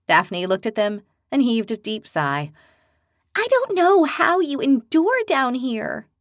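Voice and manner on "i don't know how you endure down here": slow, higher, sorrowful; sad. Acted. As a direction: let the pity slow the words down. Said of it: "she said sadly".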